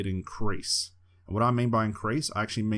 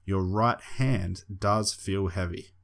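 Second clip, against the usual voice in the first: slow hypnotist voice; slower than usual. Shown as a demonstration. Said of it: "I'm gonna simply say".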